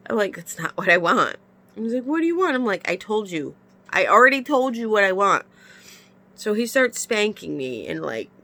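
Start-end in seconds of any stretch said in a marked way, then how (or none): 0.3-1.4 retold protest at full voice; firm objection. Woman repeats her objection to partner, firmly. 2.0-2.5 high-pitched mock question; exasperated partner. Partner asks her what she wants, high mock exasperation. 2.9-5.4 retold exasperation. Acted quarrel with partner.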